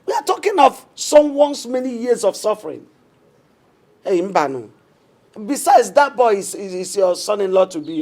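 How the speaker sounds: indignant rebuke. Acted. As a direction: scold him for his cruelty. Wife rebukes husband's harsh words.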